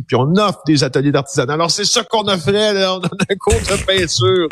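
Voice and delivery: high, lively shopkeeper voice; chirpy small shop owner. Retold or imitated.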